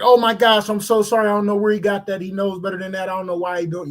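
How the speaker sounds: apologetic dad. Retold or imitated. Father apologizing, retold again.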